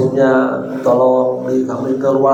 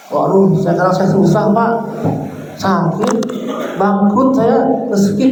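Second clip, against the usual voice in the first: complaining; 4 semitones higher than usual. Retold or imitated. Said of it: "Ah, jangan, nggak boleh".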